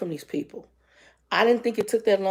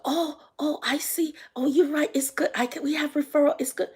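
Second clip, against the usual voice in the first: high, sheepish clerk giving in; high mock clerk conceding; mimicking Peach; 7 semitones higher than usual. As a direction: mimic her quickly backing down.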